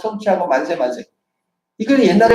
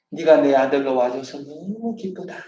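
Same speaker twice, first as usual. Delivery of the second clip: tender blessing; 2 semitones lower than usual. Shown as a demonstration. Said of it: "너는 내 기쁨이다".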